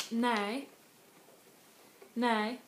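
"Nej" stretched into two syllables, first one stressed. Shown as a demonstration. Answering no to a question, "Nej" stressed up front. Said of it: "also stress the first syllable".

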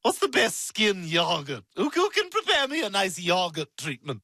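"yogurt" said with a short first vowel, like "yoggut"; clipped British-style "yogurt", said to annoy; odd pronunciation. Acted. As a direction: lean teasingly on "yogurt" as "yoggut". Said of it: "If you say it like that".

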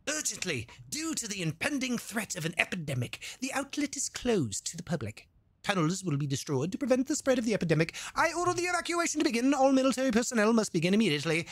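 lightly voiced official announcer; mock announcement. Streamer reading the game's evacuation notice as a mock announcer. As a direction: read it like a stiff military broadcast. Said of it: "Why we went from Texan to that?".

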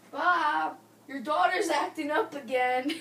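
loud call across the house. Acted. Mother calls Bob about the daughter, loud call. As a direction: shout for Bob to come deal with it.

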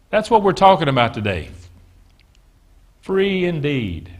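usual speaking voice

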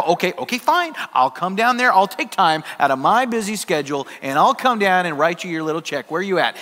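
mildly huffy, grudging consent; retold irritation, lightly acted; short with her. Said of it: "I'm getting short with her".

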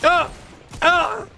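high, slowed-down awe at the screen; amazed. Real, not acted. Streamer marvelling at Mongrel's perfect plays, drawn-out excited awe. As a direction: stretch out the wonder as if you can't believe it.

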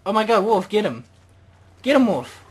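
excited shout. Real, not acted. Gamer cheering his wolf on to catch prey, excited shout. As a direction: yell at your wolf to go for it.

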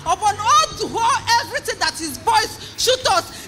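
high, loud testimony shout; preaching climax. Acted. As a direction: shout the miracle to the congregation.

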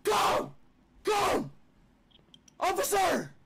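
high, hammed-up screaming plea; fake panic. Prank caller begging officer to come, fake panicked screaming. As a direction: shout for help in mock desperation.

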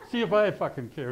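loud mock-angry swearing; retold angry outburst. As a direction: act out a defiant temper, amused. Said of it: "because I'm angry, I say".

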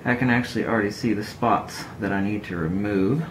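words from the corner of the mouth, lips nearly closed. Real, not acted. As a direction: talk sideways out of the mouth corner. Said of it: "I'm gonna talk out of the corner of my mouth here".

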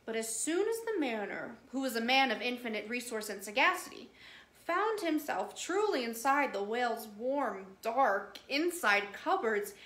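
lively, sing-song read-aloud voice; storybook narration. A narrator's reading. The speaker reading Kipling to children, lively storytelling.

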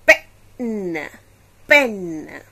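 teacher models the word pen; clear model word. Shown as a demonstration. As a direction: say "Pen, pen." loud and clear for the class. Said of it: "as in an".

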